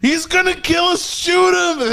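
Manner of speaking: very high frantic cry, imitating someone terrified; mock shriek urging someone to act now; panicked shout. Storyteller imitates the clerk begging him to fire, high panicked shout.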